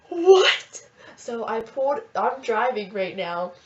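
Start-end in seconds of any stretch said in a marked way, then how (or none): 0.1-0.9 loud, high disbelieving what; stunned what. Retold or imitated. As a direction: shout it in total shock. Stunned reply to sister.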